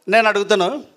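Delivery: ordinary talk, nothing marked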